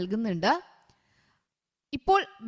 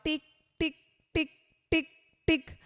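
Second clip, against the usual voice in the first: ticking clock; 4 semitones higher, 3 dB quieter, faster than usual. Shown as a demonstration. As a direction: separate soft ticks with pauses. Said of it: "clock sound at night". (രാത്രി ക്ലോക്കിന്റെ ടിക് ശബ്ദം)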